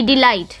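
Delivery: डिलाइट with light डि and stressed लाइट. Shown as a demonstration. Teacher showing an iamb, stress on second syllable of डिलाइट. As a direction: lean gently on the लाइट of डिलाइट. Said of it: "लाइट पे थोड़ा सा".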